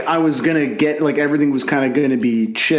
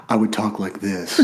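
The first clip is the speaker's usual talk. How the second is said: put-on lower, softer teenage voice demo; put-on dropped voice; 4 semitones lower, 5 dB quieter than usual. Shown as a demonstration. Showing co-host how they talked as a kid, dropped voice. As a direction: drop the voice down low and soft. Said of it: "once my voice dropped".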